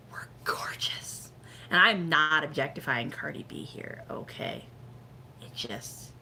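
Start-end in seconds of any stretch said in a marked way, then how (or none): 0.1-1.3 hushed, slow whisper; slow admiring whisper; whispered admiration. Real, not acted. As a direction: whisper it slowly, in awe. Admiring aside dropped to a whisper.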